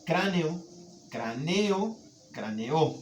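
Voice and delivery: cráneo, craneo, craneó with the stress moving to the end; shifting stress. Shown as a demonstration. Teacher walking stress across cráneo. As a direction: move the stress from CRÁ to the final NEÓ. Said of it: "¿De acuerdo?".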